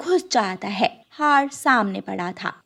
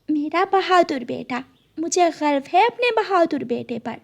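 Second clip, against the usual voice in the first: higher, tender pride; proud mother sparrow; 5 semitones higher than usual. Acted. Mother sparrow praises her brave son, proud.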